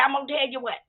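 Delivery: mock-tough threat to the cousins; stern threat. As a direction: lay down the law to them. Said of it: "I said it just like that".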